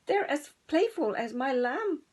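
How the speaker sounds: bleating sheep. Acted. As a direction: baa it out happily. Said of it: "baaed Sally".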